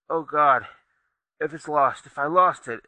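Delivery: panic. Acted. Dying man panics over box.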